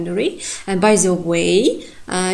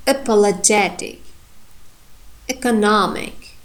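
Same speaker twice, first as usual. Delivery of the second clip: economic with the nom syllable stressed; careful model reading of each word; reading with correct stress. Shown as a demonstration. Teacher reads the table, deliberate stress. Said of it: "read them with correct stress".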